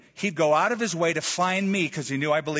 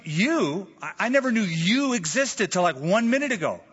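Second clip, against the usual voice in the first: imagined disbelief; 6 semitones higher, 3 dB louder than usual. Pretend. Imagines Saul's reaction to the question.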